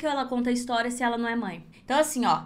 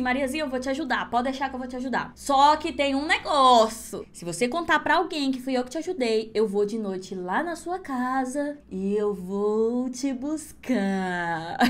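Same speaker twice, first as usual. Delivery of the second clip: slow, lowered witch voice drawing out the threat. Acted. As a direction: witch slowly promising to come at night. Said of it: "a bruxa foi e falou assim".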